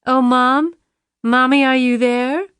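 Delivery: put-on high, pleading little girl voice; mimicking Lisa. Jackson mimics Lisa to torment her mother, high and childlike. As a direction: copy the daughter's voice perfectly. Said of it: "mimicking Lisa's voice precisely".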